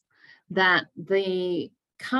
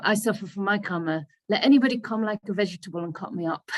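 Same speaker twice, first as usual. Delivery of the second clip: put-on Indian accent; 2 semitones higher, faster than usual. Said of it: "he always sounds very charming with his Indian accent".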